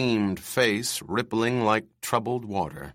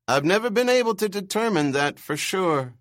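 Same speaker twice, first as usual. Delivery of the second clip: put-on screechy old man; 11 semitones higher, 3 dB louder, faster than usual. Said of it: "his bird screech voice".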